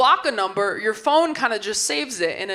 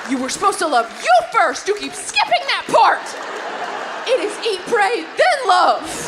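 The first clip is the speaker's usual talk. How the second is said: mock self-scolding; 6 semitones higher than usual. Inner voice scolding herself.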